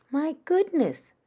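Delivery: high, loud surprised exclamation; surprised mother. Acted. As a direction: gasp it out in alarm. Mother alarmed at crying.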